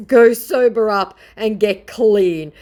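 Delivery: high, loud, slow scolding; mock viewer voice. Vlogger voicing the viewer's scolding, high and slow. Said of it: "she says".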